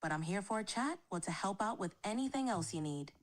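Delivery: switched-on northern English accent, on request. Shown as a demonstration. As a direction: speak in a Northern England accent. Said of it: "A Northern England accent it is".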